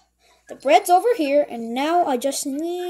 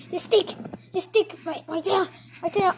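pained panic; 3 semitones higher than usual. Acted. Mouse's tail caught.

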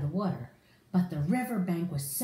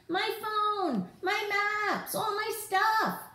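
higher, a touch of panicked cry; mock yell; 13 semitones higher, slower than usual. Jake slipping and losing his stuff, mock panic. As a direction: wail about lost gear, lightly. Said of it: "could hear him yell".

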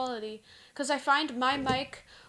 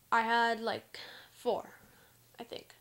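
whisper. Real, not acted. Aside while counting clips.

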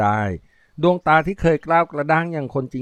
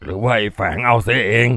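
bellowing; 2 semitones lower, 3 dB louder than usual. Acted. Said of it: "กำนันแผดเสียงออกมายังลืมตัว".

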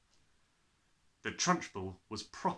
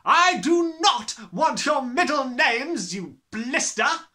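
slow furious shout, much higher and louder; bellowing; 13 semitones higher, 13 dB louder, slower than usual. A narrator's reading. Headmistress bellows at a cheeky pupil, slow furious shout. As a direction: bellow at the boy. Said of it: "the Gorgon bellowed".

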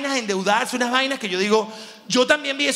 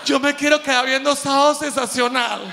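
put-on higher whining kid voice; whiny child; 4 semitones higher than usual. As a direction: beg like a spoiled kid. Niño quejándose. (niño quejumbroso)

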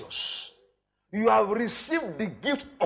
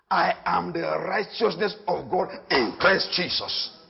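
solemn confession; slower than usual. Acted.

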